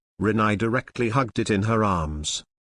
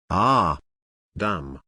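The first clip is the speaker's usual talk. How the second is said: scream of pain; 5 semitones lower than usual. A narrator's reading. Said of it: "screamed and roared".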